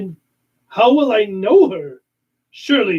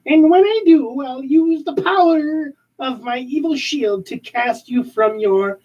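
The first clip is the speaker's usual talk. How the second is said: villain threat; 5 semitones higher, slower than usual. Acted.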